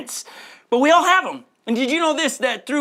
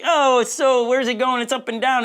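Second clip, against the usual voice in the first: mock panic; 4 semitones higher than usual. Investor frets over his stocks, mock panic. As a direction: play the nervous investor watching the market. Anxious stock owner voiced.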